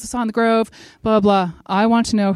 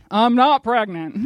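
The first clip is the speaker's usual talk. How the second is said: slow, amused mock indignation; mock protest; 3 semitones higher, 3 dB louder, slower than usual. Patient to doctor ordering an ultrasound, mock protest. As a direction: protest slowly with a laugh in it.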